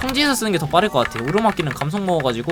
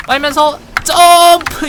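rising excited call; 9 semitones higher, 8 dB louder, slower than usual. Real, not acted. Calling out combo in game.

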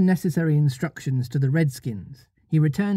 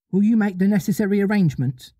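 sharp; 5 semitones higher, faster than usual. Acted. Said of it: "she said to him rather sharply".

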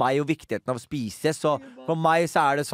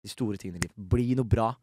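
lightly voiced uncle, low and soft; understated, subdued imitation of a dying uncle; dying uncle's advice; 4 semitones lower, 4 dB quieter than usual. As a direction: softly give earnest last advice, imitated. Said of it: "så begynner han å si sånn".

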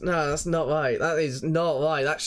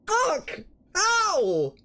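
excited yelp; 13 semitones higher than usual. Real, not acted. Still reeling from the win.

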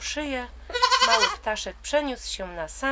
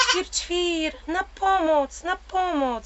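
high frightened chirping cry for help; bird crying for help; 10 semitones higher, 4 dB louder, slower than usual. Acted. Little bird calling the deer for help against the wolf, high and frightened. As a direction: shout for help like a tiny scared bird. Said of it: "zawołał mały ptaszek".

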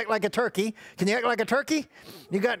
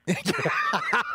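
playful imitation of a rabbit laughing; put-on animal laugh; pretend rabbit laugh. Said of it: "How does a rabbit laugh?".

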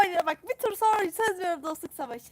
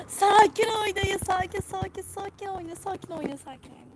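calming plea; 5 semitones higher than usual. Real, not acted. Urging teammates to stay calm.

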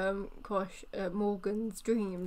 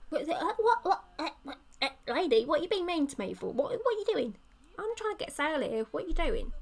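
laughing outrage; 4 semitones higher, faster than usual. Acted. Voicing shocked seller, laughing.

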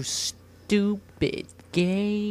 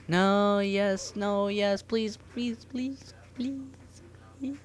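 anxious pleading; 5 semitones higher than usual. Real, not acted. Pleading while attempting a jump.

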